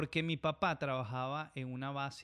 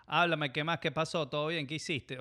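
loud, higher, buddy-style greeting; Venezuelan street greeting; 3 semitones higher, 6 dB louder than usual. Retold or imitated. Pilot imitating how Venezuelans greet friends, loud and upbeat. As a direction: hail a pal on the street, loud and breezy. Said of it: "qué palabras raras usamos".

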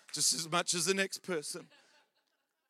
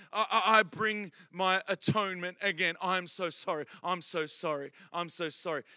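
mock penitent prayer; 2 semitones lower than usual. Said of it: "and we say".

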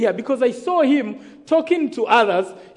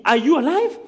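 higher, rising disbelieving question; acted excited astonishment; 3 semitones higher than usual. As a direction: ask it excitedly, pitch climbing. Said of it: "they were excited".

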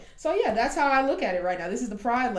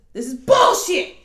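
louder, higher angry burst; frustrated outburst; 8 semitones higher, 8 dB louder than usual. Retold or imitated. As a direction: blurt it out in mock frustration. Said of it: "she's frustrated".

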